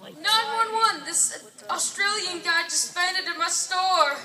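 put-on loud, muddled Italian accent. Italian shopkeeper calls emergency services, loud Italian accent. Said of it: "you're Italian".

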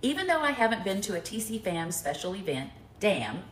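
low, measured card-reading voice; reading a note aloud. Real, not acted. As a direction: read the gift poem out to the room. Reads a gift note aloud.

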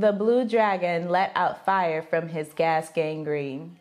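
slow, low-pitched recital; deadpan challenge read. Real, not acted. Giving the partner a phrase to guess, deadpan.

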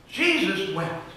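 slow, drawn-out "Jesus wept.". Shown as a demonstration. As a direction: let "Jesus wept." linger slowly.

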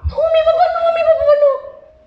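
put-on high-pitched, panicked child voice; pleading child. Child begging the teacher not to call dad, panicked pleading. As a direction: plead like a frightened little kid.

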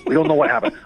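monster released, high-pitched; Al Pacino. Acted. Comic shows later Pacino, monster let loose. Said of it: "then it came out like this".

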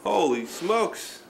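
drawn-out, slow holy smokes; hammed-up wonder for the kids; mock amazement. Father plays amazed at the Easter Bunny's gifts, slowly.

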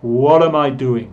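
"am" weakened to um, linked to "What"; natural speech with a shrunken "am"; reduced "am". Shown as a demonstration. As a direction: run "What am I" together as "whud-um-I". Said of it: "Reducido el verbo be".

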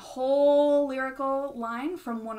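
running out of air; breath running out at the end. Real, not acted. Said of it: "Oh, I ran out of breath".

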